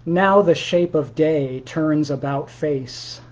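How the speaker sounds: slow, measured poem recital; poetry reading. Acted. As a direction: read it like a poem, each word weighed. Reads his own poem aloud.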